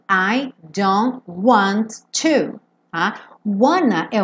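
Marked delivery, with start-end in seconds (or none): 0.1-2.6 "I don't want to" as separate, fully sounded words; full written form. Shown as a demonstration. Teacher reading what was written, full-form pronunciation. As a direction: spell out "want to" without contracting it. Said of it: "mesmo a gente tendo visto que tava escrito".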